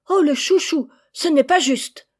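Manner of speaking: put-on sulky kids crying unfair; jealous chicks whining. Chicks protest the favourite stays home, high loud whine.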